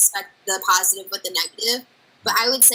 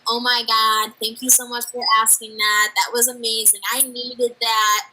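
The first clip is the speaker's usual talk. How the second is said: grateful gush; 6 dB louder than usual. Retold or imitated. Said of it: "comments telling me".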